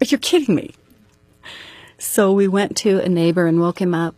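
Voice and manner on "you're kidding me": high, breathless you're-kidding-me; reliving the shock of bad news, half laughing; stunned disbelief. Wife hearing her husband shot himself, stunned disbelief. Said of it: "I just go like".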